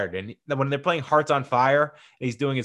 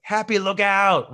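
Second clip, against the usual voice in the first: higher, slow, drawn-out call; retold yell; 8 semitones higher, 4 dB louder, slower than usual. Girlfriend cheering him on at the course, a high drawn-out mock yell. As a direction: call it out long and high like a fan. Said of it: "when his girlfriend yells that".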